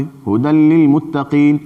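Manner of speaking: "ھدی للمتقین" recited slowly, as a fresh start; slow Quranic recitation. Shown as a demonstration. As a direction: chant it slowly after the stop. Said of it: "سے الگ پڑھا جاوے".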